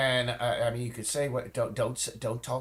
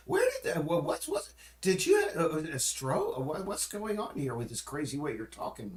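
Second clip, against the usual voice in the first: incredulous son; 4 semitones higher than usual. Retold or imitated. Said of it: "I was just like".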